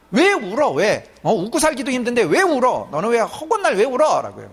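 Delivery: half-acted exasperated parent; mock scolding. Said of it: "막 야단을 쳐요".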